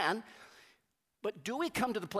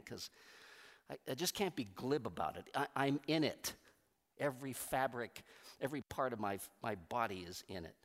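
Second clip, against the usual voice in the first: anguished inner plea; 3 semitones lower, 4 dB quieter, faster than usual. Retold or imitated. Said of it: "and I go".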